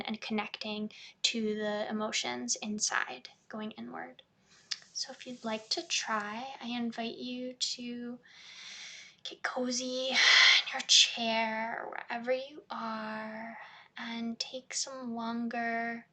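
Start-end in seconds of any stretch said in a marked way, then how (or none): 4.9-16.1 unhurried guided-meditation delivery. Shown as a demonstration. Therapist inviting a client to get cozy, guided meditation. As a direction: ease the listener in, pausing between phrases.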